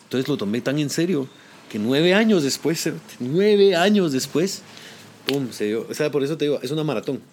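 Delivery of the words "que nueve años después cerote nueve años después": nueve años después drawn out slowly and loud; dragging out nueve años después for effect; stretched emphasis. Real, not acted. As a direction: lean hard on nueve años, slow.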